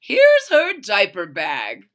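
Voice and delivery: mom voice. Acted. Mom voiced in read story.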